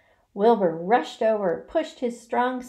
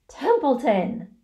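loud, raised, drawn-out appeal; desperate; 5 semitones higher, 5 dB louder, slower than usual. A narrator's reading. Pig to stalling rat, desperate. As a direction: call the name in desperation. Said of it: "said Wilbur in desperation".

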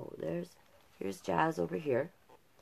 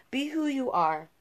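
whispered, higher, gentle; tender whisper; 9 semitones higher, 6 dB louder than usual. A narrator's reading. Parents whisper to their child at bedtime, tender whisper.

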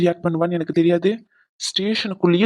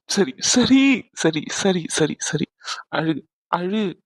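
soothing hush; much slower than usual. Acted. He soothes her as she cries.

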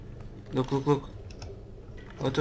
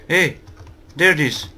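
excited; 5 semitones higher, 5 dB louder than usual. Real, not acted. Finding the item.

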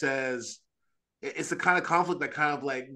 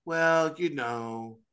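long, higher "oh" of mild soothing; mock placating; 4 semitones higher, much slower than usual. Pastor humouring someone in temptation, mock placating. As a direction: put on a little placating sympathy. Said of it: "I can't placate them and be like".

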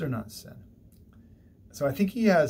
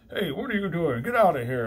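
raised, higher angel's rebuke; Gabriel shouting; 7 semitones higher, 7 dB louder than usual. Retold or imitated. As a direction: throw him out with a loud high call. Gabriel expelling Satan.

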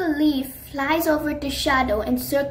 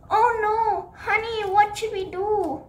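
much higher, alarmed cry for help; panicked friend; 7 semitones higher than usual. Acted. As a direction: gasp out in fear for a hurt friend. Sunny sees friend hurt.

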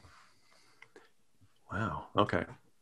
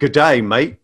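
playful Australian greeting, touched with laughter; lightly put-on Australian accent. Shown as a demonstration. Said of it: "my Australian accent is".

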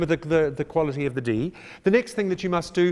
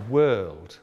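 Kiwi accent; 7 semitones lower than usual. Shown as a demonstration. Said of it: "with no R in it".

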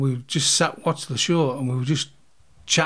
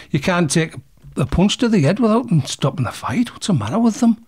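higher-pitched exasperated grumble, re-enacted; fuming complaint; 5 semitones higher than usual. Boxer complaining to Duncan on the way home, fuming. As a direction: climb in pitch with indignant disbelief.

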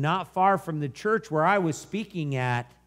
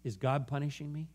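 soft, hushed retold question; gentle, understated voicing of her doubt; subdued question; 7 dB quieter than usual. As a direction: ask it quietly, as her. Woman's painful question retold.

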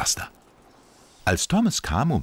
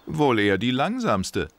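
grinning tease; 5 semitones higher than usual. Acted. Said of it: "sagte Max grinsend".

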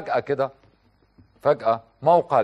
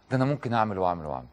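inner fan threat; 5 semitones lower, 5 dB quieter, much faster than usual. Retold or imitated. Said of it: "هو بيقول كده جواه".

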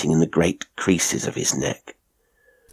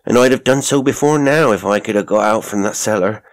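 a hint of a housekeeper, slightly raised pitch; lightly voiced servant woman; 3 semitones higher than usual. Mrs Toller explaining Miss Alice's troubles, lightly voiced servant woman. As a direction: lightly play a servant telling her account.

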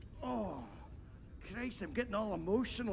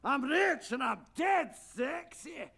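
boastful shout; 3 semitones higher than usual. Acted. Boasting defiantly.

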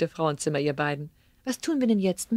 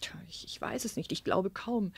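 much softer, nearly whispered; subdued whisper; 7 dB quieter than usual. Acted. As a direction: let the voice drop away in doubt. Mother, subdued, about ex-husband. (leise geflüstert)

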